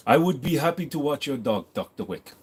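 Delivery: put-on formal concierge accent, dropping soft on the name; measured, put-on foreign concierge accent; attempted Charon accent. Concierge offers to watch the dog, attempted Charon accent. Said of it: "Can't make a Chiron accent".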